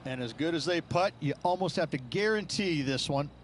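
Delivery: relaxed colour commentary; easy confident analyst read; golf commentator. Acted. Game golf broadcast call.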